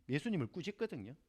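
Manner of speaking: ordinary talk, nothing marked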